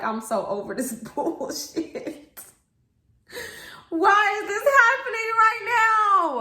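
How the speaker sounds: laughing then a high, loud mock wail; fed-up laugh. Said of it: "it's that type of laugh".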